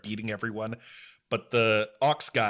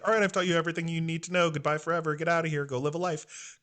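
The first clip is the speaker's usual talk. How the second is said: quick, higher-pitched dismissal; brushing him off; 5 semitones higher, much faster than usual. Retold or imitated. Doctor playing Chopper off to send him away, brushing him off. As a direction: hurriedly wave him away in one breezy run. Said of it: "tried to, like, play him off".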